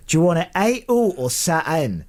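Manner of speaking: put-on a quick Glasgow server's question in a light Glaswegian accent. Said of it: "the only accent I can do".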